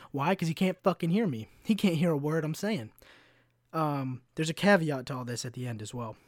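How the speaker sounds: usual speaking voice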